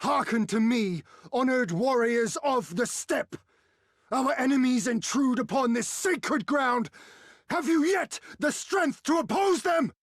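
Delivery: a war cry building to the final question; rallying call. Acted. Rallying the steppe warriors.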